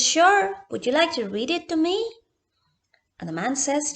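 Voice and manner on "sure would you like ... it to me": put-on eager little girl. A narrator's reading. Girl eager for doll's letter.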